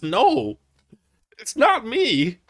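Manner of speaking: high, slow whiny imitation; mocking a rapper. Mocking a rapper's denial, a high slow whine. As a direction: whine it like a guilty kid. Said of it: "All he said was".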